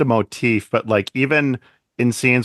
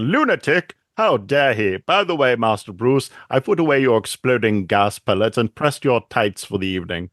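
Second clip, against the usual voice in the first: mock-indignant butler voice, pitched up at first; sassy put-on butler, mock affront giving way to dry service; Alfred's sass. Butler sassing his master about the press conference, mock-indignant sass. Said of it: "I love Alfred's sass when he's saying".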